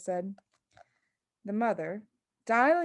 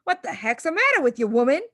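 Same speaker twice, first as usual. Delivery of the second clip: angry shout, fast and louder; 4 semitones higher, 6 dB louder, faster than usual. A narrator's reading. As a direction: bellow at his wife in outrage. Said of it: "he shouted".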